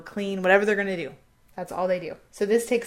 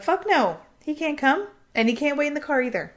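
mock angry refusal; 7 semitones higher, 4 dB louder than usual. Regina refuses Justin coming.

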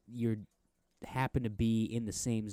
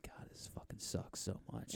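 whispered in the listener's ear; hushed, voiceless whisper, acting a director; mock director's whisper; 16 dB quieter than usual. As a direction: whisper it like a secret confession. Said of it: "just whispering in your ear".

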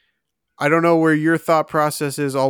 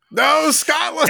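surprised outcry; 13 semitones higher than usual. Real, not acted. Reveals wrong answer in dismay.

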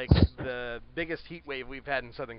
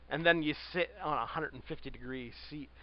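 understated deadpan sarcasm; sarcastic. Real, not acted. Co-host on sitting on a baking hot seat, sarcastic. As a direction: pretend to approve, with mild sarcasm. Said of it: "I'm being sarcastic".

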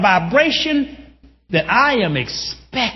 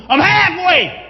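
higher, louder triumphant holler; 8 semitones higher, 4 dB louder, slower than usual. Retold or imitated. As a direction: shout it to an empty room. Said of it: "I hollered out in an empty room".

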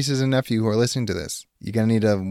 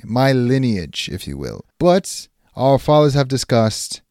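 medieval suitor. Acted. Suitor role again.

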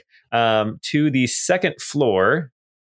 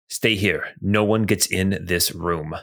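deep voice; 4 semitones lower than usual. Acted. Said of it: "you hear a deep voice say".

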